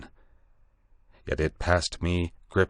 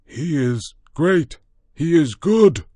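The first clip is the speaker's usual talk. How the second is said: much higher, louder trembling praise; fearful awe; 11 semitones higher, 9 dB louder, slower than usual. A narrator's reading. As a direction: cry it out in terror. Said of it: "peering fearfully upward".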